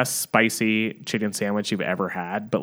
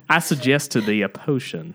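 higher, hammy Southern barkeep; attempted Southern accent; 4 semitones higher than usual. Bartender offering Margaret a potion, attempted Southern accent. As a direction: have a shaky go at a Southern accent. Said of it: "it's supposed to be Southern".

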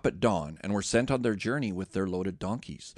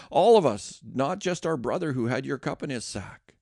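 raised, earnest plea; pleading Judah; 6 semitones higher than usual. Acted. Judah answers Joseph, a raised, earnest plea. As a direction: beg the lord to take you all. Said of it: "Judah answered".

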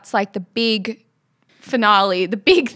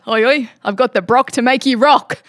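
imitating Nathan; 3 semitones higher, 5 dB louder than usual. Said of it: "he said".

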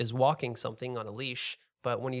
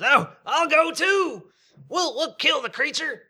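put-on drunken volunteer; 9 dB louder than usual. Second drunk fisherman joining in, high sloppy boast. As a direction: boast it like a tipsy fool. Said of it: "Another guy says".

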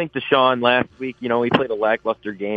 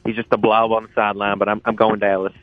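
put-on Texas accent. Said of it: "I'm dropping the accent here".

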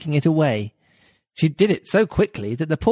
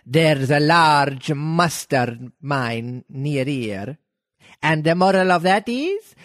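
Duchess voice; slower than usual. Acted. Reading the Duchess's lines.

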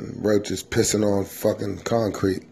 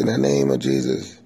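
slightly high fervent blessing; a touch of a praying aunt; church mom blessing; 5 semitones higher than usual. Retold or imitated. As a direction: bless them while flicking water. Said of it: "start flicking it in your face".

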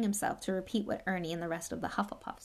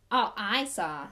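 stubborn; 5 dB louder, slower than usual. Acted. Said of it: "said Ernie stubbornly".

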